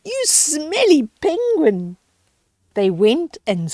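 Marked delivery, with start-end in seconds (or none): 0.0-2.0 teasing disgust. Acted. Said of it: "the penguin said".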